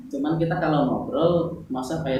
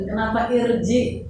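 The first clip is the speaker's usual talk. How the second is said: slow, mildly raised "Kenapa irji?"; lightly voiced learner asking why; mock student question; 6 semitones higher than usual. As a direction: ask like a puzzled pupil. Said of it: "jawabnya gitu".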